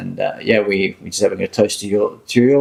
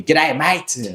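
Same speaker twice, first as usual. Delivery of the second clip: mock Australian greeting, higher "G'day, mate"; Quinton's accent; 5 semitones higher than usual. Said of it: "in Quinton's accent".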